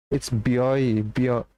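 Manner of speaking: a hint of an accidental Norse accent. Real, not acted. Streamer trying out a viewer's name, slight Norse accent. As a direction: lightly slip into a Norse accent. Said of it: "saying it like a Norse accent".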